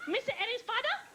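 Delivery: high put-on Asian accent; high-pitched mock accent of the housekeeper. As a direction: imitate Mrs. Livingston's accent. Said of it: "little Oriental woman to come out and go".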